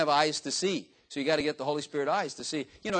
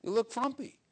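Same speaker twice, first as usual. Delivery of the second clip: blunt honesty; 7 semitones higher than usual. Pretend. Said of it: "just tell them".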